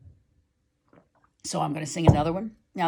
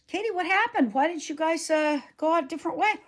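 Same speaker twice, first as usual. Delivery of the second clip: much higher, quizzical friend voice; puzzled friend; 9 semitones higher, faster than usual. Retold or imitated. Friend asking Katie why she rode another way, high and puzzled. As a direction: ask it bewildered and high. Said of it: "she came over and said".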